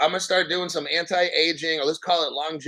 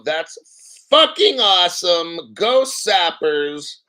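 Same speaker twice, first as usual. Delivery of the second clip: excited cheer; 5 dB louder, much slower than usual. Real, not acted. Cheering on live viewers.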